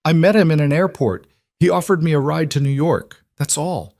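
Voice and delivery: high, frantic pleading; a captive shouting her story at the interrogator; still shouting. Acted. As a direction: keep yelling, fighting to be believed. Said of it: "she was shouting now".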